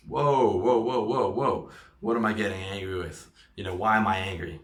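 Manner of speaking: mock startled whoa, then settling down; catching himself. He stops his own angry thought with a sudden whoa. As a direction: pull yourself up short, whoa whoa. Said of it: "And then you're like".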